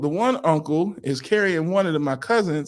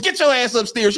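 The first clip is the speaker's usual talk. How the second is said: mock stern order; 6 semitones higher than usual. Adult orders child upstairs.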